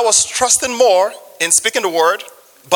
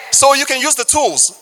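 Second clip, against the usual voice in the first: preaching shout; 6 semitones higher than usual. Real, not acted. Preacher exhorting congregation.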